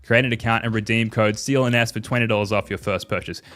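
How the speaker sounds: upbeat sponsor read voice. Acted. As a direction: sell it like a radio ad. Sponsor ad read, noticed after.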